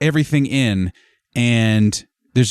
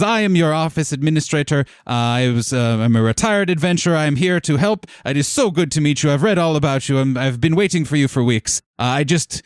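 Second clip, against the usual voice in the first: quick, higher-pitched eager chatter; excited welcome; 4 semitones higher, faster than usual. Acted. Retired adventurer greets the guild she has awaited for weeks, excited welcome. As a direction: tumble through your introduction with mild excitement. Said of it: "while excitedly welcoming".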